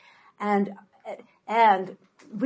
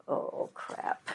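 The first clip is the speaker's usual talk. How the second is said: under-the-breath oh crap; whispered aside; 13 dB quieter than usual. Real, not acted. Mother realizing the consequence, whispered aside. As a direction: mutter it to yourself, dismayed. Aside after kids' demand.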